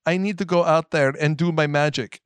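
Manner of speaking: mock the film heroine's early accent; Scarlet Witch. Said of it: "poor Scarlet Witch's ac-, accent".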